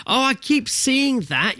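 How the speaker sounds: high, slow "Oh" of recognition; light up as you place the name; drawn-out, delighted "oh, that one"; surprised recognition. Real, not acted. Sudden recognition of a game.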